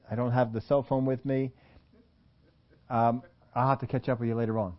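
low, soft, halting apology; polite mock excuse. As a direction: beg off gently with stumbling excuses. Acted polite excuse to a talker.

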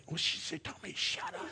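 whispered aside in disbelief; hushed whisper of disbelief; stunned whisper. Retold or imitated. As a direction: whisper it to your wife, stunned. Stunned aside to his wife.

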